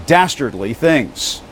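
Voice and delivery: dastardly things drawn out slowly, every syllable weighted; slow emphatic quote. Retold or imitated. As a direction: lean hard into "dastardly things". Reporter reads a quoted phrase.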